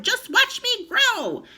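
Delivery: high, slow crone voice; old hag gloating as she grows; screechy boast. A narrator's reading. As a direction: gloat slowly, drawn out. Grandma boasting.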